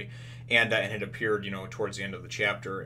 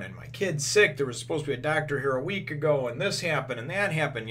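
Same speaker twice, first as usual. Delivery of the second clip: higher-pitched, aggrieved listing; retold townspeople's complaint; 5 semitones higher than usual. Townspeople whose kids are sick without doctors, complaining. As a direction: imitate upset townsfolk airing grievances.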